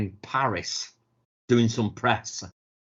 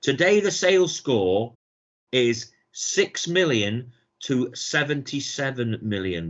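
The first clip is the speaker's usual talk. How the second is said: reading a blurb; slower than usual. Acted. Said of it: "I'll just read you this little bit of a blurb".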